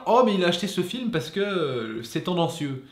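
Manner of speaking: voix nettement plus aiguë et plus forte, faussement outrée; spectateur soupçonneux. Retold or imitated. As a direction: imite un spectateur qui le soupçonne. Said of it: "vous pouvez vous dire". (le vidéaste imite un spectateur qui doute de ses goûts, outré)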